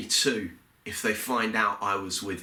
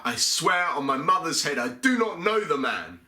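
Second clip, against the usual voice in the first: much higher, swearing and shouting back; cursing shout; 7 semitones higher than usual. Acted. Peter cursing the man who accuses him, high swearing shout. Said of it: "I curse my accuser and I shout".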